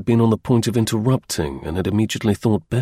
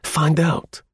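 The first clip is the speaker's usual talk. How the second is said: mocking taunt; 8 semitones higher than usual. A narrator's reading. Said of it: "Luce laughed in his face".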